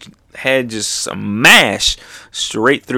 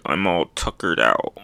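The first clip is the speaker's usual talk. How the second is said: lower, softer worn-out voice; mock weariness; tired fighter; 6 semitones lower, 6 dB quieter than usual. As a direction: let it sag as if spent. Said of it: "He's like".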